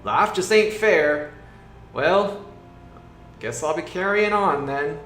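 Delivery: high, loud, slow mock-sulky moan; sulky werebore. The werebore moans at its bad luck, high and slow. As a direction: sigh it out like a beaten-down brute. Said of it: "The werefore's like".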